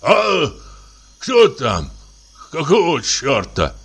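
sleepy cough, then an alarmed gruff call; alarmed shout. Acted. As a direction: wake up startled and bark out. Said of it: "кашель и тревожный окрик".

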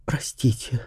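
soft, unvoiced, deflated whisper; a crushed actress whispering sorry; whispered apology. A narrator's reading. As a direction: breathe the word out, defeated. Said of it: "вздохнула актриса и сникла".

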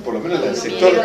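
usual speaking voice

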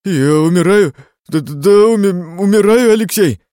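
panicked cry. A narrator's reading. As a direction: shout it in terror of dying. Patient panics he is dying. (в панике, крича от страха)

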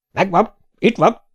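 magas hangú, örömteli felkiáltás; örömmel. A narrator's reading. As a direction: jelentsd örömmel a leletet. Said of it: "Jöttek örömmel". (örvendező felkiáltás)

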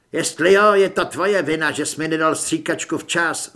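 loud, accusing snarl; angry snarl. Acted. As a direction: blame the cultist hard. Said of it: "zavrčel Torres". (Torres vrčí na kultistu)

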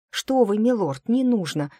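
flustered protest. A narrator's reading. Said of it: "протестующе замахала руками".

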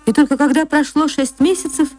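usual speaking voice

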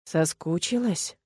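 slow, creeping villain taunt; sly taunt. Acted. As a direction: drawl it out like a predator.

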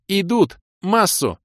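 very high urgent cry; shouted alarm. A narrator's reading. Кира alerts the party to attackers, shouting. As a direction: call out the enemy's approach. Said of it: "в голос крикнула Кира".

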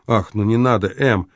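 ordinary delivery, nothing marked

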